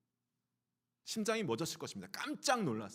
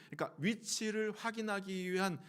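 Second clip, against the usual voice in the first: ordinary talk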